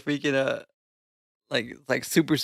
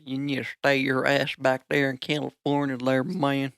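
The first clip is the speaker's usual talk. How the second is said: put-on cowboy accent. Sending Californians back, playful cowboy accent. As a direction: tell them off in a cowboy accent. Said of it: "a cowboy accent".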